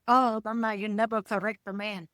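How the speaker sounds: imitated meek mother in Asian accent; subservient Asian mom. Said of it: "Being a subservient Asian, she said".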